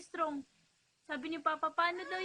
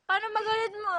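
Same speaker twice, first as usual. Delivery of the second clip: loud, eager prompt to show anger; loud urging; 6 dB louder, much faster than usual. Real, not acted. Mother loudly urging her son to show his angry face. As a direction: push him to show it, loud.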